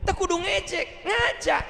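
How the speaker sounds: very high-pitched put-on voice; high, emphatic elder's maxim; imitating the teacher. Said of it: "Ustaz Abdurrahman begitu".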